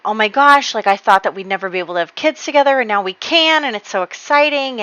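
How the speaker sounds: bright, eager gush of joy; gushing over the happy news; excited. Retold or imitated. Husband gushing over baby news, excited. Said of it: "he's, like, really happy".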